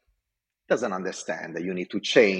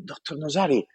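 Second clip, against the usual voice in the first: higher, eager and breathless-sounding pitch; raised, enthusiastic retold pitch; excited report; 5 semitones higher than usual. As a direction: replay your young excited self to the boss. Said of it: "I tell him".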